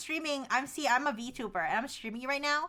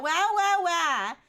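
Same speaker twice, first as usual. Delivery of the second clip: higher, louder exclamation; mock outrage; 4 semitones higher, 6 dB louder, much slower than usual. Real, not acted. Streamer reacting to the AI's scolding, mock outraged. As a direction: play up the indignation.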